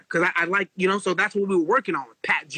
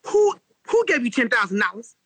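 shocked mom, pitched way up at first; high mock mom voice; imitating mom; 3 semitones higher than usual. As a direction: squeal out his mother's disbelief, then settle. Mom seeing the check.

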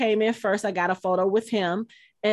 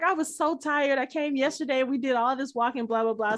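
retold excuse; 4 semitones higher, 3 dB quieter than usual. Daughter's excuse retold to actor.

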